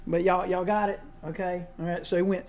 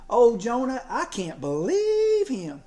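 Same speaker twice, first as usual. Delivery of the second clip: exasperated; 3 semitones higher, slower than usual. Shown as a demonstration. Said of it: "a sermon ... that said".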